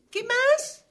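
high, loud, impatient demand; exasperated. Acted. Author asking character for further complaints, loudly exasperated. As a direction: throw it out sharply, fed up.

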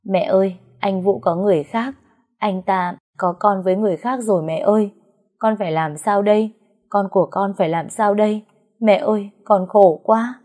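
crying daughter. Acted. Daughter sobs to her mother about her husband's affair, mild tearful voice. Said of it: "cô òa khóc".

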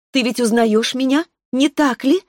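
put-on a child spirit passing sentence, unhurried; sweet young voice. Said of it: "спросил дух".

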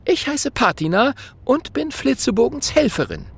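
put-on high, bright little girl voice; young princess. A narrator's reading. Princess introduces herself to the dragon, high girlish voice. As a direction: introduce yourself politely, a little proud.

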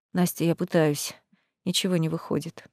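barely has strength to speak; weak, exhausted. A narrator's reading. Exhausted prince. (обессиленный принц говорит еле слышно)

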